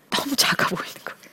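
ordinary delivery

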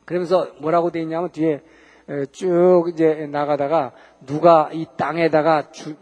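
ordinary talk

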